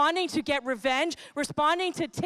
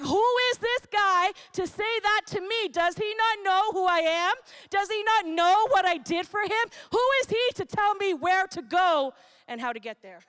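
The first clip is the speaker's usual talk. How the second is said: indignant David; 4 semitones higher than usual. Pretend. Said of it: "David is like".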